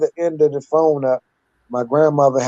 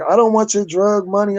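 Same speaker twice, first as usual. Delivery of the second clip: grandma refusing; 6 semitones higher than usual. Retold or imitated.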